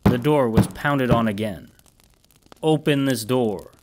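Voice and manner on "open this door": imposing voice. Acted. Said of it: "large, imposing voice".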